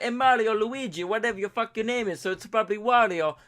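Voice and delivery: high, loud cartoonish heckle; mock confrontation. Customer confronting the Italian hot dog man, mock outrage. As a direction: call him out in a hammed-up cartoon voice.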